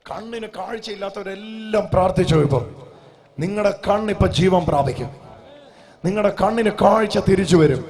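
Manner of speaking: loud healing proclamation; full-force preaching. Real, not acted. Preacher promising sight to the blind, full-force preaching. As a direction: declare it loudly over the crowd.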